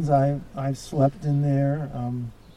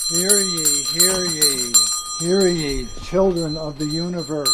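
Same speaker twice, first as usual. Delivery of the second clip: higher ceremonial proclamation, lightly hammed; town crier call; 5 semitones higher than usual. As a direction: announce it like a herald. Ceremony with a bell.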